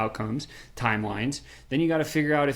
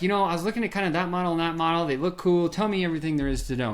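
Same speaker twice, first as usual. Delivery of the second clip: higher, fast, mock eager questions; eager customer; 4 semitones higher, faster than usual. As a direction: rattle off keen questions. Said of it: "and you're like".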